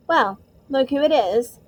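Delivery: slow, lazy sneer; lazy drawl. Acted. Malfoy sneering at Harry and Ron at the door, lazy drawl. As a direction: drag it out lazily, looking down on them. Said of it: "in his usual lazy drawl".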